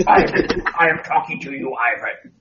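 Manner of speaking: a light growly Venom impression; mock alien symbiote menace. Shown as a demonstration. Doing the Venom voice for a friend. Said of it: "I swear I was doing the Venom voice".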